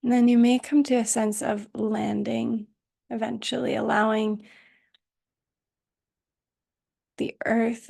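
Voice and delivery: calm, unhurried meditation voice with long pauses; guided meditation. Acted. Teacher settling students into Yoga Nidra, calm guided meditation. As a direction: guide them gently into rest, leaving space between phrases.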